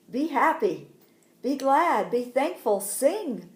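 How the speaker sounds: loud, lifted, jubilant urging; joyful exhortation. Acted. Risen Jesus tells women to rejoice.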